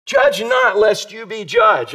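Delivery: preaching the verse at full voice; emphatic reading. Real, not acted. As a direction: read the verse out with force. Preacher reads the verse aloud.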